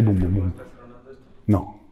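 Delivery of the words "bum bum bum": spoken boom-boom-boom of shaking; imitated thudding. Explorer showing companions how it seems to shake, imitated thuds. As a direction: imitate the structure thudding with your voice. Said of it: "Así".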